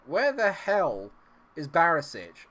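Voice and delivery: loud, high, slow outraged question; exasperated yell. Real, not acted. Gamer yelling at his missing defender, loud and slow. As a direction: demand it of the screen.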